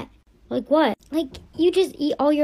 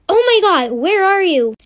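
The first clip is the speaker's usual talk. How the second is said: alarmed mother; 5 semitones higher, 6 dB louder than usual. Acted. Mom hears daughter in labor.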